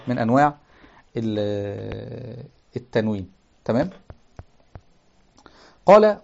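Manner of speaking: ordinary talk, nothing marked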